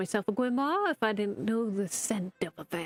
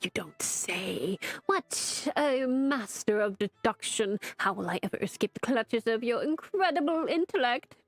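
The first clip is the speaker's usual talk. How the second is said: hammed-up martyr sarcasm; sarcastic. Barnabas mocking his master with theatrical sarcasm. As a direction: lay the self-pity on thick. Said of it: "you're being sarcastic right now".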